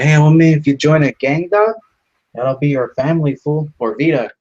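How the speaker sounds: cholo recruiter. Retold or imitated. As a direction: hype the kid into the gang like a homie.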